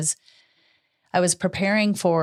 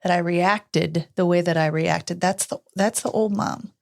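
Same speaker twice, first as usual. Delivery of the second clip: reassuring; 3 semitones higher than usual. Retold or imitated. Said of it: "gave her the biggest hug".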